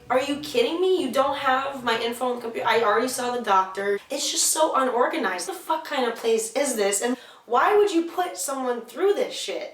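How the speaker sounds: exasperated, pitch jumping on the outrage; indignant rant. Retold or imitated. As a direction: replay your outrage at their incompetence. Ranting at the hospital's disorganization.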